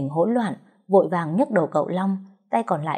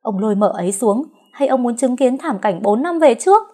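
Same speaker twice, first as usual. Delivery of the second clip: louder, rising annoyed demand; 5 semitones higher, 5 dB louder than usual. A narrator's reading. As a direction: press the old man irritably. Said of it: "Mai nhìn sang ông Phú bực bội". (Mai bực bội với ông Phú)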